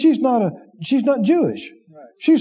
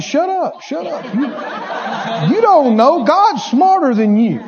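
higher, laughing shush at the inner voice; laughing mock scolding; 4 semitones higher than usual. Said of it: "I said".

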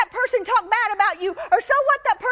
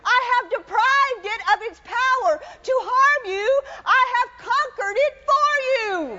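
tearful preaching; 2 semitones higher than usual. Real, not acted. Preacher declaring victory to the congregation, near tears. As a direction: voice breaking with emotion. Preaching climax, heard cry.

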